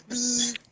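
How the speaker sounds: softly buzzed zzz; buzzing vibrator. Retold or imitated. Answering a friend on the call, buzzing like a vibrator. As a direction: imitate a vibrator's hum with the lips. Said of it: "it vibrates".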